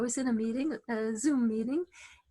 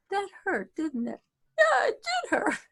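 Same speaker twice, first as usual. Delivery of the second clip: tender to yourself; 7 semitones higher than usual. Shown as a demonstration. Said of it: "like you talk to a little kid".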